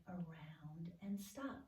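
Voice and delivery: slow whispered "around and stop". Shown as a demonstration. Teacher whispering the stroke while tracing c. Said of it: "lower one is starting".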